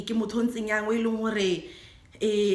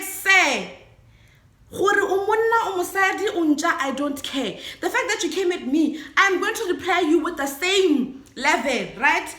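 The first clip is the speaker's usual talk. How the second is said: retold telling-off; 4 semitones higher than usual. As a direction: give him back the same level. Telling off the driver.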